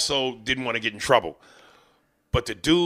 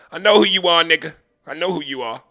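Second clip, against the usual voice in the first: menacing Jay; 6 semitones higher, 6 dB louder than usual. Retold or imitated.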